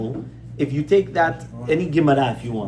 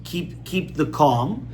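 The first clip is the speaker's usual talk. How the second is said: slow and calm; much slower than usual. Shown as a demonstration. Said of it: "what you always have to keep is".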